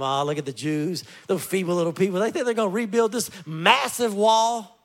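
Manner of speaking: a hint of sneering ridicule; mocking taunt. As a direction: scoff at the feeble builders. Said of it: "laugh and make fun of them".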